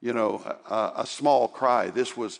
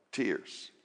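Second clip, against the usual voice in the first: "Tears" दोहराया, धीमा और बहुत नरम; "Tears" softly, much softer, a hushed echo; 4 semitones lower, 11 dB quieter than usual. Shown as a demonstration. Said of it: "Try tears".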